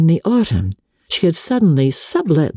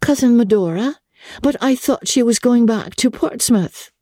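surprised exclaim; 9 semitones higher than usual. A narrator's reading. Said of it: "as May exclaimed".

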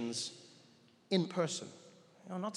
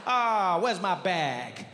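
sudden worry; 3 semitones higher, 5 dB louder, much slower than usual. Retold or imitated. Worry dawning at the carousel.

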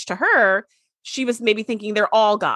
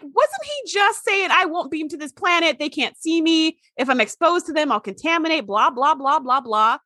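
incredulous; 5 semitones higher than usual. Retold or imitated. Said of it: "I was like".

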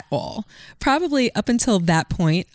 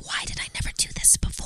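fast, unvoiced, much softer; remembering the high, whispered in wonder; 10 dB quieter, much faster than usual. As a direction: whisper it in awe. Recalling blissful high.

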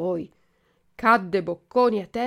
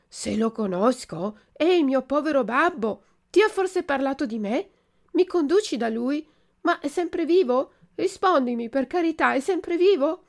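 high, loud begging questions; anxious pleading puppet; 6 semitones higher, 4 dB louder than usual. Acted. Puppet begging the pigeon for news of his father, high anxious pleading.

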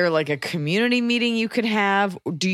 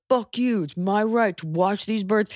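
mock British; 3 semitones higher than usual. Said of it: "You sound British".

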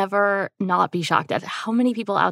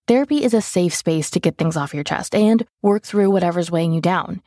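ad read. Acted. Host reads sponsor ad.

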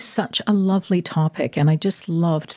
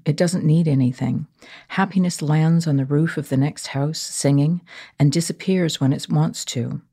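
poem reading. Acted. Reads a poem aloud.

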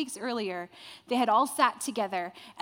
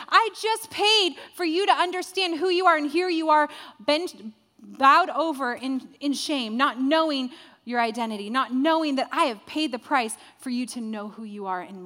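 frustrated Jesus; 3 semitones higher, 6 dB louder than usual. Acted. Jesus voiced, frustrated at shame.

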